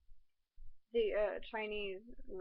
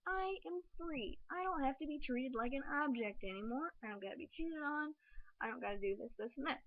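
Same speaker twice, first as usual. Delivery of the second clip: elated freedom list; 3 semitones higher than usual. Retold or imitated. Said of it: "I'm like".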